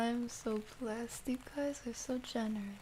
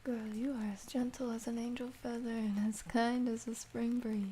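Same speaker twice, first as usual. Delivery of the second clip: tender reassurance. Real, not acted. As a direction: comfort her like a friend. Reading comforting message to viewer.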